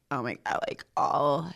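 put-on low, croaky Valley Girl; Valley Girl with a frog in the throat. Shown as a demonstration. Demonstrating the millennial voice to listeners, Valley Girl. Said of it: "frog in your throat vibe to it".

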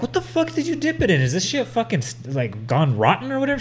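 high-pitched disgusted shock; shocked and grossed out; retold disgust. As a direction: recoil in disgust, voice jumping high. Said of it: "And I'm like".

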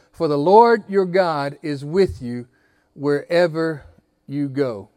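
slow, deliberate words, a pause before wherever; slow spoken affirmation. Shown as a demonstration. Slow, earnest affirmation. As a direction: pastor tells the church to say it to their neighbour. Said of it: "look at the person next to you and say this with me".

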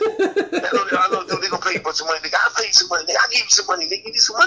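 high begging voice, rising; pleading Curry character. Retold or imitated. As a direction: beg him to stay, pitch climbing. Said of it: "I love this character".

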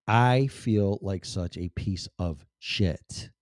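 slow, weighted self-reproach; retold guilt, spoken very slowly; heavy confession. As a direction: draw out each word of the admission. Retold confession to his mom.

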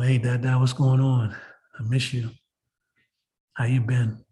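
low, tender rehearsed greeting; subdued, affectionate imagined reunion; talking to dad. Pretend. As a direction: speak gently, as if to your father. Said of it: "when I see my dad in person, I'll say".

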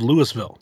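"Louisville" with the S sounded, "Lewisville"; as spelled. Shown as a demonstration. Panelist shows the spelling, "Louisville" said as "Lewisville". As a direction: say "Louisville" as written, "Lewis-ville". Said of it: "but it's spelled Louisville".

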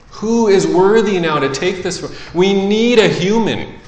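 high, ringing herald's call; loud proclamation. Acted. Angel searches for a worthy human, loudly proclaiming. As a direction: call out the challenge to everyone. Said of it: "proclaiming with a loud voice".

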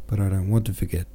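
quick, pressed desperate outburst; a touch of a desperate cry, fast. Acted. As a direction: rush it out in desperation. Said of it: "Tony cried out in desperation".

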